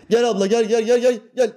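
high, loud beckoning tout; tout calling in. Retold or imitated. Shop tout calling passing women into the shop, high loud beckon. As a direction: pull customers in, gel gel gel. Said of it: "Hanutçular bağırır".

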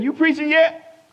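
high and loud, drawn out; the stranger pressing him about preaching; slow pointed question. Retold or imitated. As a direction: lean on it as a probing question.

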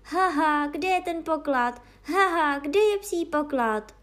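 loud, high eager shout with laughs; calling out excitedly. Acted. The mongrel calling across the meadow for treasure, loud eager shout. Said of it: "na palouk a volal".

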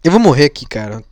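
talking through a big yawn. Real, not acted. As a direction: yawn out the words. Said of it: "eu tô bocejando".

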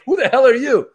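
high-pitched and laughing; laughing mock indignation; mock baffled crowd. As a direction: play the confused audience through a laugh. Audience reaction, retold.

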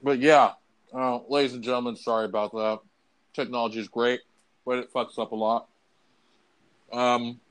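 chewing while talking. Real, not acted. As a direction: speak around a bite of food. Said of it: "I don't mean to be chewing in your ear".

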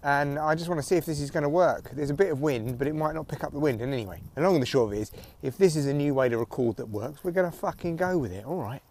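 muffled headphone mic; recorded through headphones; headphones used as mic. Real, not acted. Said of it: "I am recording through headphones and the mic's kind of almost on my neck".

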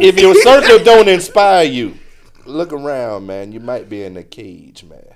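slow, deliberate motivational-speaker pitch; salesman pitch. Acted. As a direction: sell the line like a magazine salesman. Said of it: "You sound like you selling magazines".

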